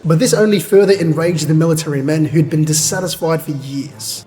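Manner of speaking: measured narrator reading; story narration. A narrator's reading. Reader narrating the battle to chat, measured narration. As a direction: read it out as a story recap.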